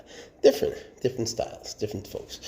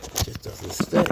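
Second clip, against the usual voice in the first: higher, rising repeat of the complaint; exasperated repeat; 7 semitones higher than usual. Real, not acted. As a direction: say it again up high, fed up. Repeats complaint to his pet.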